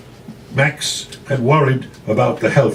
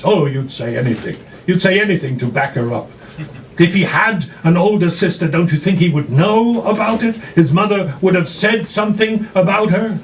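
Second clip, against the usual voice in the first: daughter pleading, higher and quick; upset daughter; 5 semitones higher than usual. Acted. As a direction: push back hard, hurt and insistent. Daughter argues with father.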